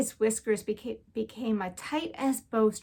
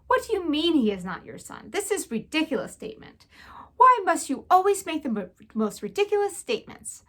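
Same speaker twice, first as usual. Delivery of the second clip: French exasperation; 6 semitones higher, faster than usual. Acted. Antoinette scolds her husband.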